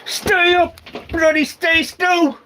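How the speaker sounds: high, exasperated grumbling at stuff. Real, not acted. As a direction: scold the gear that won't stay put. Items won't stay put while packing.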